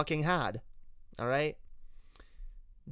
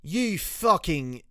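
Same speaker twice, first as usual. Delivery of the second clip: slow, higher Australian cursing; Australian accent; 4 semitones higher, 4 dB louder, slower than usual. Shown as a demonstration. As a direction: start swearing in a broad Aussie accent. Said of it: "that's Australian".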